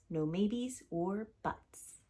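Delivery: slow, drawn-out closing words; emphatic finish. Acted. Papa's sign slogan ending on a slow emphatic note. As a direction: spell out the last words firmly.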